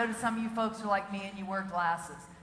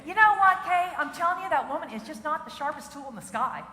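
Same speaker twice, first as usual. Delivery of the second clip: mock exasperation, starting high and settling down; exasperated sister; 3 semitones higher than usual. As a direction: imitate an exasperated sister, pitched up at first. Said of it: "when she gets all exasperated".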